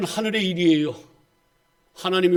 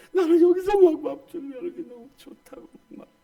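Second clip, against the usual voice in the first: imitating happy church members; 8 semitones higher than usual.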